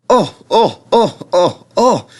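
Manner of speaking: high, loud startled cries; trucks screaming. A narrator's reading. Silly trucks squealing as Edward pulls them, high and loud. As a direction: squeal in alarm at each jerk. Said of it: "screamed the trucks".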